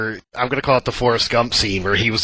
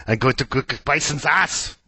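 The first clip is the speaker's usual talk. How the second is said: put-on Arnie accent; 2 semitones higher than usual. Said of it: "I think I did an Arnie accent".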